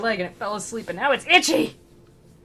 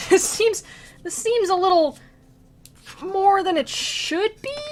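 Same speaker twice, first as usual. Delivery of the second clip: incredulous protest; 2 semitones higher, 6 dB louder, slower than usual. Retold or imitated. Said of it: "He was like".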